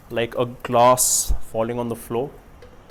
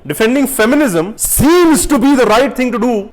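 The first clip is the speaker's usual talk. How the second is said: higher and louder, playing a smug do-gooder; mock self-righteous voice; 8 semitones higher, 5 dB louder than usual. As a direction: sneer at the trendy opinion in a put-on voice.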